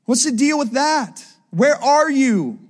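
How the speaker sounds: aggrieved questioning, stretched out; mild complaint. Acted. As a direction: plead the complaint at God. Voicing complaint of disappointed believers.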